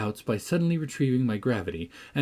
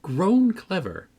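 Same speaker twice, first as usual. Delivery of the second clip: high, louder mock admiration; teasing encouragement; 6 semitones higher, 4 dB louder than usual. A narrator's reading. Catherine urging the lad to read aloud, high and teasing. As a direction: egg him on in a lifted, girlish voice.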